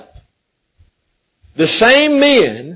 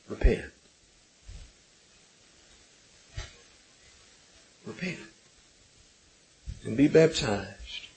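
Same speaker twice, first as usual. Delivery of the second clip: much softer, lower, tender reply; gentle answer; 10 semitones lower, 10 dB quieter, faster than usual. Retold or imitated. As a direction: answer them gently, almost hushed. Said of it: "he gently answered them".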